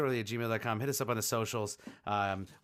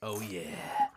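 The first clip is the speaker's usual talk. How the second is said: ASMR voice; 3 semitones lower than usual. Pretend. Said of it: "if you like A S M R".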